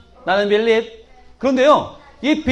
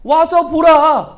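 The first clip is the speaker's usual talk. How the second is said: slowly drawn out, louder; slow recitation; 4 dB louder, much slower than usual. Shown as a demonstration. Teacher leading the children to repeat slowly. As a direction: spell out each word slowly for the class to repeat. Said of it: "따라합니다. 시작".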